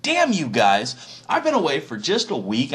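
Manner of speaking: slow, drawn-out angry scolding; pissed off. Acted. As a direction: chew them out like a fed-up dad. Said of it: "Moses gets pissed".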